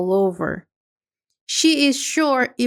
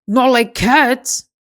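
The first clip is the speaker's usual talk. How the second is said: loud, indignant squeak of outrage; angry indignant cry; 6 dB louder than usual. Acted. The offended mouse shouting back at Alice, angry and loud. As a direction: fling the question back in anger. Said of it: "in a high, angry voice".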